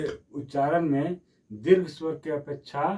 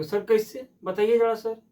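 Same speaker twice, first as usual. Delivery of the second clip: student asking; 7 semitones higher, 4 dB louder than usual. Pretend. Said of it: "कहिएगा".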